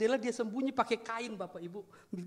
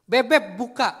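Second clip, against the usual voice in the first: put-on louder, higher call to the child; wife calling out; 5 semitones higher, 10 dB louder than usual. Wife calls to her locked-in child, raised urgent call. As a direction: imitate mum calling through a shut door. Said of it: "lalu berkata begini".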